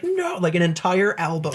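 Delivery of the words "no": imitating. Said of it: "everyone's like".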